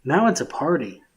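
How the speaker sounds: muffled behind a mask. Real, not acted. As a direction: speak muffled through a tight mask. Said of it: "it sounds like I'm really muffled in here".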